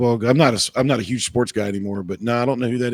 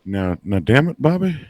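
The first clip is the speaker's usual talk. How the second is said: lightly voiced Texan dad scolding Bobby; a hint of a drawling cartoon dad; Hank Hill impression. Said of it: "it's kinda like his, uh, Hank Hill".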